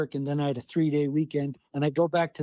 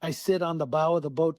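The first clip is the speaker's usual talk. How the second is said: normal talking voice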